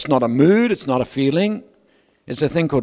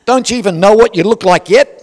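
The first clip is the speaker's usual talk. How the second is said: laughing jibe; 5 semitones higher, 8 dB louder than usual. Acted. Mocking joke, laughter.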